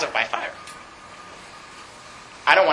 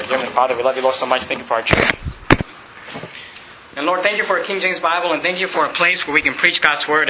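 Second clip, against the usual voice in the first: tag; 5 semitones lower than usual. Real, not acted. Leads closing prayer.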